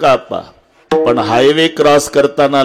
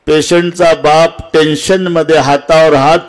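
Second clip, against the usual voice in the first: raised, fervent kirtan preacher's pitch; impassioned preaching; 5 semitones higher than usual. Real, not acted. Preacher contrasting the visible mother with the unseen father, impassioned. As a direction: press the point home to the congregation.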